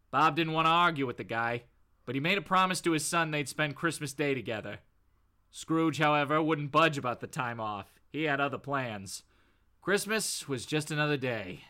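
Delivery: low, fairly quick narrator voice; comic-book narrator. Acted. Reading a comic's narration about Bob and Scrooge, low narrator voice. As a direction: read as a low-pitched storyteller. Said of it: "the narrator, uh, goes".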